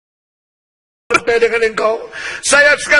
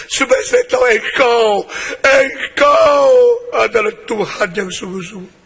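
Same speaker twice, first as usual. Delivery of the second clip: Saul praying. Acted. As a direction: cry out to God in remorse. Saul's repentant prayer voiced.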